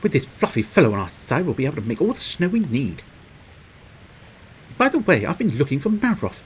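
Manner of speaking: lightly voiced eager companion; upbeat game character. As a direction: read it as a lively storybook helper. Reads game character's dialogue.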